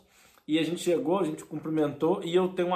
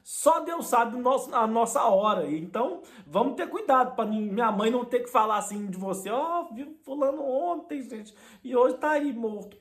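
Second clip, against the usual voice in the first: a hint of a raised, moralising voice; lightly preachy son; 4 semitones higher than usual. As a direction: lecture her with mock solemnity. (leve tom de sermão)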